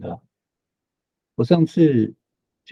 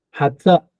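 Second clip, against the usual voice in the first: 哈扎 with stress on the final 扎; light 哈, then hit 扎; stress at the back; 3 semitones higher, 3 dB louder than usual. Shown as a demonstration. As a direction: land firmly on 扎. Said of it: "如果重音在后的话".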